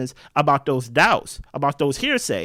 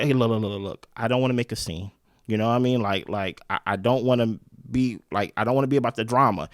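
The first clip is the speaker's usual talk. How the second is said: Jeremiah deflecting; 7 semitones lower, 4 dB quieter than usual. Retold or imitated. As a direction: lower and softer, hedging guy's voice. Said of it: "And he's like".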